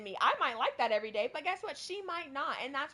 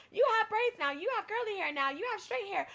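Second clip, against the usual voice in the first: higher, lightly exaggerated gushing; mocking the lady; 8 semitones higher than usual. Mocking the office lady who comments on her hair, higher voice. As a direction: imitate the nosy comment. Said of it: "she did it every single time".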